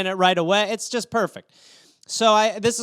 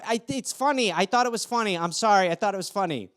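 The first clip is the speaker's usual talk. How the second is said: flustered apology; 2 semitones higher than usual. Retold or imitated. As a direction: scramble to excuse yourself. Flustered excuse to the girl.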